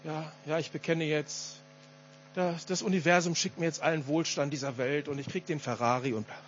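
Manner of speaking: leise, tiefer heruntergeleiert; Karikatur mechanischen Bekennens. Acted. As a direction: leiere es spöttisch wie ein Papagei herunter. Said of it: "vor einer Karikatur warnen". (mechanisches Nachplappern, karikiert)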